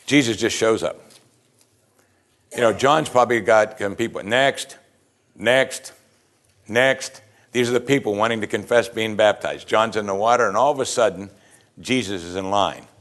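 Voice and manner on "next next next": lightly acted queue call, rising each time; a hint of a routine call-out, lilting upward; calling next. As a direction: call people up one by one, evenly spaced. John calling people in baptism line.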